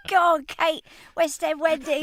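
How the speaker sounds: loud, high cheering call; retold cheering. Front of house staff cheering their chorus girl, loud high call. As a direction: cheer her on from the back of house.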